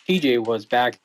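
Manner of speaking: radio breaking up. Real, not acted. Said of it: "It sounds like you're breaking up or the battery is dying".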